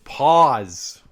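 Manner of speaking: loud, drawn-out meme shout; mock callout. Host calls out the innuendo with a loud mock shout. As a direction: bark it like an alarm at a double meaning.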